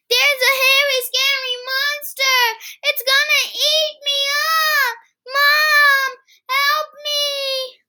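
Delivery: high, breathless mock terror; fake fright. Kipper pretending a monster will eat him. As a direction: cry out as if about to be eaten.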